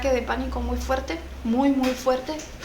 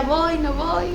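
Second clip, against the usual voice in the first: hesitant dithering; 3 semitones higher, slower than usual. Retold or imitated. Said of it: "Y yo decía".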